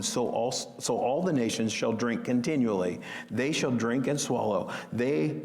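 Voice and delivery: low, measured Bible reading voice; scripture reading. A narrator's reading. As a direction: read the verses out solemnly and evenly. Reads scripture aloud.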